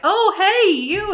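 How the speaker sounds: mother calling sweetly from a car window; sugary high "oh, hey, you"; sing-song greeting. Retold or imitated. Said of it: "And she's like".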